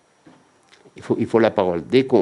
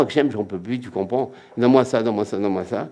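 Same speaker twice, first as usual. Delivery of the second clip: demanding prayer. Acted. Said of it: "On comprend".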